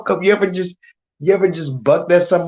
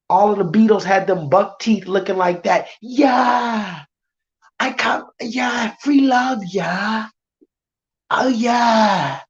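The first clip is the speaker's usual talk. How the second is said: a hammed-up Liverpool accent with shouted yeahs; mock band accent. Streamer mocking a famous band, in a mock Liverpool accent. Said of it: "stupid ass accent, the band".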